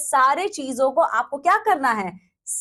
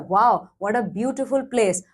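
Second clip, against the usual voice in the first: exclamation demo; 4 semitones lower, much slower than usual. Shown as a demonstration. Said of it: "exclamation mark आप वहां लगाते हो".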